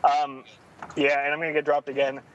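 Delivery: speakerphone call from a car; breaking-up phone line from driving. Real, not acted. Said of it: "I'm driving, losing reception thing".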